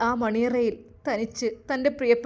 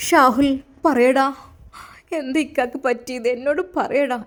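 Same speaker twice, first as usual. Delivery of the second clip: desperate plea; 4 dB louder than usual. Acted. Wife begs brother-in-law for news.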